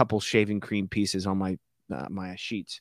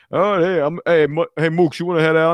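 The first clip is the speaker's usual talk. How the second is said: put-on Italian accent; 5 semitones higher, 7 dB louder than usual. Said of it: "that's my only Italian, uh, accent".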